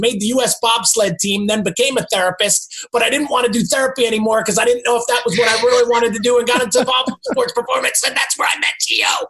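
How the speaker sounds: nonstop breathless rattle. Running through his own background, rapid Ace Ventura-style in one breath. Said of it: "Do it like Ace Ventura on one breath".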